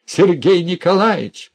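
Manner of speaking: loud, high mimicking shout of her call; jeering loud call across the room; mocking call. A narrator's reading. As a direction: echo her cry in mockery. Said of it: "подхватил и Князев её зов".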